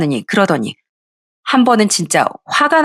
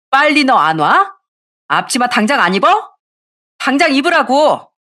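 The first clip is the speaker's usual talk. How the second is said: higher, insistent scolding command; angry order; 6 semitones higher than usual. A narrator's reading. Daughter-in-law ordering sister-in-law into apron, angry. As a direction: order them with mild acted anger. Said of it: "화를 내고 열불을 토해내야".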